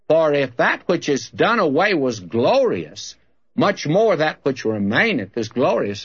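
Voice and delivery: emphatic Bible reading with rising and falling swells; preacher's measured, stressed verse reading; Scripture reading. Real, not acted. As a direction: read the verse out to a congregation. Reads Scripture aloud to congregation.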